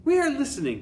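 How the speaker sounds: very high, loud shrill cry; squealing witch chorus. Acted. Witches answering their leader, very high and loud. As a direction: squeal eager agreement. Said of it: "cried the audience".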